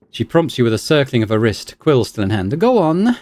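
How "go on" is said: high, excited scholar; excited researcher. Acted. Scholar announces her findings to a colleague, high and excited. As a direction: report a discovery. Belasag voice.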